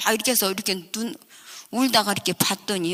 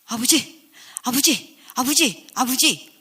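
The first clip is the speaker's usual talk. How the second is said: rising anxious calls for father; calling out; 5 semitones higher than usual. Retold or imitated. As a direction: call out for father, scared. Child calling father in the dark.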